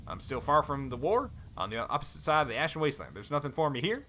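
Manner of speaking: put-on light cowboy accent, friendly; easygoing Western cowboy accent. Helm reminds Thorn they travelled together, cowboy accent. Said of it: "cowboy accent".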